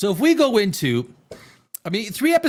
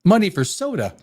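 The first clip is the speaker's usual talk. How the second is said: higher, pressing question; mock challenge; 6 semitones higher than usual. Moneyball character grilling the player about soda money, indignant. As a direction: demand an answer as if asking where the money goes.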